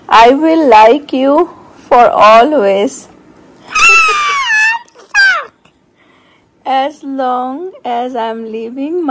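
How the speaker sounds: slow, sing-song bedtime reading; reading to a child. Acted. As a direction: read it slowly like a lullaby story. Reads storybook to child.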